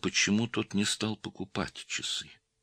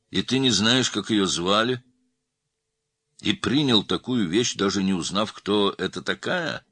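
nervous, higher and louder questioning; a hint of nervous pressure, raised voice; 5 semitones higher, 5 dB louder than usual. A narrator's reading. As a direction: press the questions with mounting unease. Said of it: "нервно спросил Мироненко".

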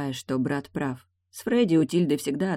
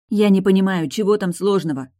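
sisterly outrage, pitched up and loud; louder, higher indignant sister; 5 semitones higher, 7 dB louder than usual. Acted. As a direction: demand it, baffled and cross. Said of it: "возмутилась она".

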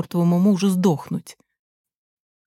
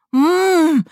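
высокий громкий вой сквозь зубы; взвой от боли и ярости; мычащий вой; 10 semitones higher, 6 dB louder than usual. A narrator's reading. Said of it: "взвыл он". (сын воет, бьясь о стену)

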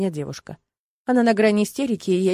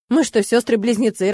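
ordinary delivery, nothing marked

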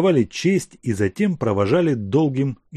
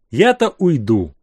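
sighing; 4 semitones higher, 5 dB louder than usual. Acted. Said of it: "вздохнул Савенков".

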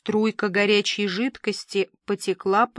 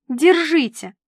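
воркование; 6 semitones higher, 5 dB louder than usual. A narrator's reading. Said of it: "ворковала Дуся".

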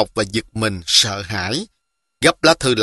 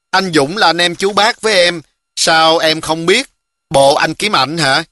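put-on a touch of a puzzled young girl, higher; lightly voiced little girl; 4 semitones higher than usual. Girl questions the boy seeking her cousin, lightly girlish. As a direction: pitch it up a little for a curious girl.

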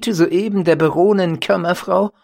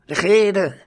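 shouted again, louder; geschrien; 3 semitones higher, 5 dB louder than usual. A narrator's reading. Ganzer Schwarm schreit die Baronin erneut an. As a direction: yell the command once more. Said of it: "schrie der ganze Schwarm".

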